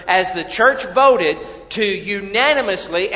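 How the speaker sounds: unanimously said with weight, each syllable clear; stress on unanimously. Real, not acted. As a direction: lean on unanimously so it lands. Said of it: "I want to emphasize the word unanimously".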